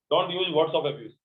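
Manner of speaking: very slow model sentence; slow dictation. Shown as a demonstration. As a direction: lay each word down slowly for students. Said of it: "teacher dictates model sentence". (धीमा, साफ़ उदाहरण वाक्य)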